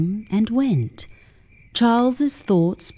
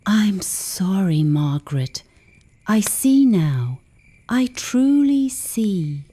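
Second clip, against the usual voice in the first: slow, soft and broken apology; barely audible, regretful and slow; voice cracking softly; slower than usual. Acted. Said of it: "His voice cracked, barely audible".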